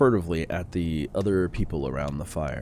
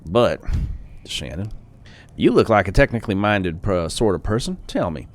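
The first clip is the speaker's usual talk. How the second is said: put-on old man voice; 3 semitones higher, 4 dB louder than usual. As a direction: ramble like an excitable old tinkerer. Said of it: "That's the voice I'm going with".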